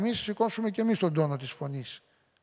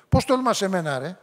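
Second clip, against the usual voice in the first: a louder mock-aggressive snap; aggressive retort; 5 dB louder than usual. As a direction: play the offended attacker, voice raised. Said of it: "και η πιο επιθετική". (ενοχλημένη επιθετική απάντηση, πιο δυνατά)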